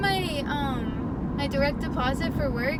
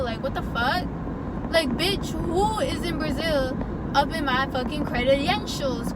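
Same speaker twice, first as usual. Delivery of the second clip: angry rant; 4 dB louder than usual. Real, not acted. Ranting at unknown scammer.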